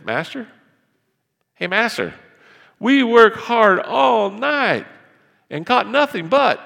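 high, loud, drawn-out protest; complaining fisherman. Acted. Simon protesting to Jesus about the empty nets, loud and slow. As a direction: whine that you worked all night for nothing.

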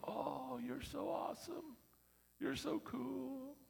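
high, mock gushing praise; fawning admirers. Admirers praising the volunteer, high mock gushing. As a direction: gush like a flattering fan. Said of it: "where people go".

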